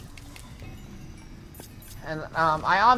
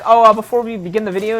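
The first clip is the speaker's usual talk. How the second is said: generic youtuber intro; 10 dB louder, faster than usual. Retold or imitated. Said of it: "one of those generic".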